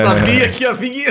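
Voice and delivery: high squealing disbelief; shrieking excitement. Real, not acted. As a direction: squeal it out in shock. Shocked gossip, voices jump up.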